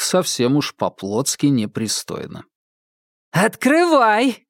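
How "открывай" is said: high, drawn-out call through the door; shouting. A narrator's reading. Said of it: "крикнула Мишель".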